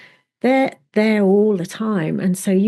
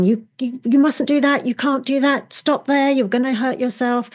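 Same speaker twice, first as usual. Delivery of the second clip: mock-scolding inner guard dog, higher voice; a touch of a bossy protector, pitched up; nagging guard dog; 5 semitones higher than usual. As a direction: nag like an anxious watchdog warning you off. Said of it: "the guard dog is barking very loudly at you".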